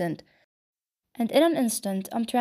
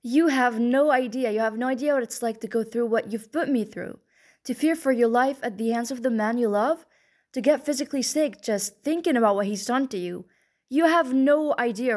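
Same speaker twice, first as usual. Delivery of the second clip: anger rising; 2 semitones higher than usual. Acted. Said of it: "The anger just came like a wave".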